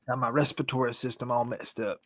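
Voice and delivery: Gator accent. Real, not acted. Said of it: "That was your Gator accent?".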